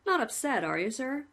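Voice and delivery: lightly voiced cheerful jailer; a hint of a chummy warden; a plain-spoken warder reporting to the condemned man, lightly voiced; polite prison warden. Warden speaks.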